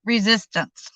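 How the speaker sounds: slow mock French accent. Don serving dessert, slow mock French accent. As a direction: announce it like a French waiter, in a French accent. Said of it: "in his best French accent as".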